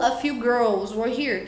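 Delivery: put-on a few girls were here said slowly; teacher slowly models another correct version; slow model sentence. Shown as a demonstration.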